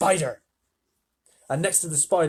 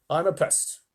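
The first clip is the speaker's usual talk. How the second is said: proud announcement; 3 semitones higher than usual. Acted. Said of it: "the centipede announced".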